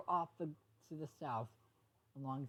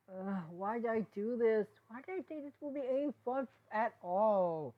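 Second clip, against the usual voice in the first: regretful groan; 6 semitones higher, 5 dB louder than usual. Acted. Izzy scolding herself after the flood, regretful. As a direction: kick yourself for the mess. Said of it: "held her head low and sighed".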